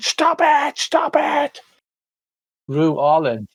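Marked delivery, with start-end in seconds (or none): 0.0-1.6 very high, wailing, drawn-out shriek. Voicing the architect as the wall shudders in pain: architect screaming. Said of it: "the architect starts screaming".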